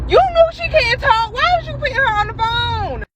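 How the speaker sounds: high-pitched disbelief, half laughing at the caller; incredulous scolding. Retold or imitated. Scolding the caller who put his moaning wife on, high incredulous. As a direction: squeal it at him, you can't believe it.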